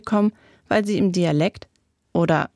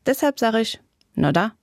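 Siegerland dialect. Acted. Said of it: "Was hat sie gesagt?".

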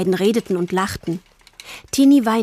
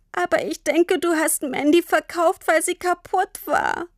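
put-on high, tearful child struggling to speak; sobbing girl; 9 semitones higher than usual. A narrator's reading. Tini pleads with Papa, sobbing. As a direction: plead through sobs. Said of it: "Tini konnte vor Schluchzen kaum sprechen".

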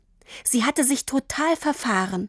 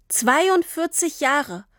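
slow; 6 semitones higher, slower than usual. Acted. Father announcing payoff.

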